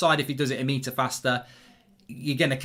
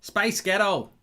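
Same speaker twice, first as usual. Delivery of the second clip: higher-pitched American accent demo; 4 semitones higher, slower than usual. Shown as a demonstration. Host demonstrating a word trick to viewers, American accent. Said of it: "say Space Ghetto in an American accent".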